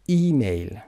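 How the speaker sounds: EE-mail, the ای of ایمیل stressed and long; stress on first syllable. Shown as a demonstration. Teacher models email stress, first syllable of ایمیل stressed. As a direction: hit the start of ایمیل. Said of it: "قسمت اول first syllable".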